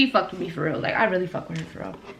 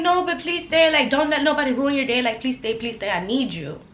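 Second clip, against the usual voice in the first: higher, fading pleas; pleading manager; 4 semitones higher than usual. Retold or imitated. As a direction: beg her to stay, softening. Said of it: "she was like".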